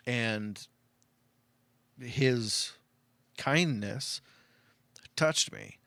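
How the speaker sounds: halting, choked-up sincerity; emotional. Real, not acted. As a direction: get moved, pausing between words. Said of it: "making me emotional now".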